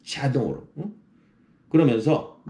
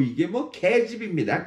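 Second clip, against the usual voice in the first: self-deprecating 이게 뭐; 5 semitones higher than usual. Shown as a demonstration. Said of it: "이게 뭐 기법을 써보세요".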